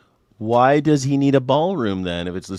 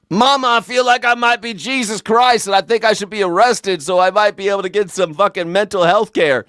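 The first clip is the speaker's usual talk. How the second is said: high whiny son voice pleading with mama; pitched way up, childish and pleading; whiny mock son; 7 semitones higher than usual. Shooter whining to his mama for arrest, high and childish.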